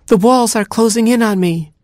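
very high panicky squeal; hammed-up terror in a tiny voice; dramatic Gerbil. A narrator's reading. Gerbil trapped in the cave, melodramatic panic. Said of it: "who tended to be dramatic".

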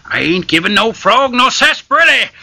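lightly voiced tough barkeep; gruff barkeep. Barkeep refusing the frog, mild gruff.

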